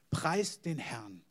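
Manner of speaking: slow, weighty "Preist den Herrn"; solemn command. Retold or imitated. David commissions Asaf to praise, slow solemn command. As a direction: lay each word down slowly as a king's order.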